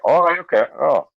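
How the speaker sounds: retold "oh, interesting" tone; piqued curiosity. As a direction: act out your interest perking up. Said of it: "my, like, curiosity".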